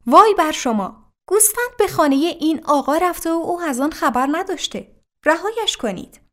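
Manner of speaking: the Imam angrily rebukes the crowd for the wrong done; angry shout. A narrator's reading. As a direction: scold the crowd with force. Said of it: "با عصبانیت فریاد زد".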